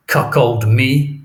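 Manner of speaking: slow, loud, bitter cry; furious outburst. Acted. Othello raging at the thought of betrayal, slow and loud. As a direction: spit out the insult.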